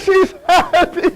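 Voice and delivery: high, slow mock happy sob; tearful joy. Storyteller showing the mother's joy, mock tearful. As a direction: break into pretend crying on the word. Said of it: "crying tears of joy".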